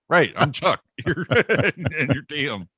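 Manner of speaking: lightly voiced confused dad; dad confirming. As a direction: play dad trying to get it right. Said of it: "He's like".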